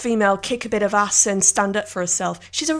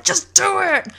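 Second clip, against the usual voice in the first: a hint of the Shia LaBeouf rant; light shouty motivational push; 7 semitones higher, 4 dB louder, slower than usual. Podcaster quoting the viral video with a touch of Shia's yell. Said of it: "like Shia LaBeouf in that YouTube video".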